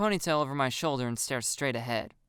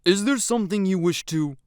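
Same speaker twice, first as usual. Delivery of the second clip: stern, louder teacher voice; scolding teacher; 5 semitones higher, 6 dB louder than usual. A narrator's reading. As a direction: scold with a raised voice and pitch. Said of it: "the teacher scolds".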